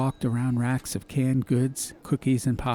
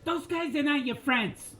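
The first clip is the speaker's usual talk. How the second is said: mild mock yell; 5 dB quieter than usual.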